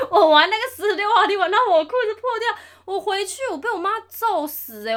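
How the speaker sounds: high, loud laughing through words. Real, not acted. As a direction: laugh while telling it. Laughing while telling the mishap.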